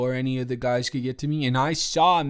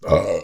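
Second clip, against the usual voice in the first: short loud burp; beer burp; 8 semitones lower, 8 dB louder than usual. Real, not acted. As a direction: let out a burp. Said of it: "I get beer burps".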